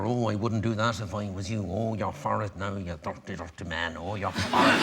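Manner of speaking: a hint of a tutting jockey on your back, slowing down; whispering jockey. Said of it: "whispering in your ear".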